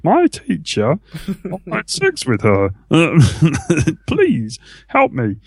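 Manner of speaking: hammed-up victim on the news; put-on plaintive confession to reporters; mock news interviewee. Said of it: "turns up on the news going".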